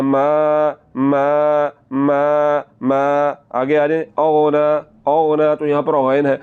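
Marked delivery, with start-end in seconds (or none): 0.0-3.0 "मा" drawn out long; lengthened meem. Shown as a demonstration. Teacher drills the madd, long sustained मा. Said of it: "इसको लंबा करना है". 4.2-5.5 "औना" as "aghna" with a heavy, rounded gh; full ghain. Shown as a demonstration. Teacher shows students a full, heavy ghain in औना. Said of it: "गैन को पुर करके".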